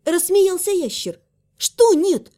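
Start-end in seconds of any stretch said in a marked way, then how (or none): 1.6-2.3 growled question. Acted. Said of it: "прорычала я".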